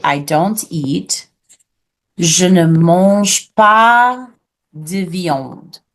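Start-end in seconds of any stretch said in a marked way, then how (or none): 2.2-5.8 French drawn out word by word; very slow teacher's model for repeating; slow model phrase. Shown as a demonstration. Teacher models saying I don't eat meat, slow model phrase. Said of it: "You'll say".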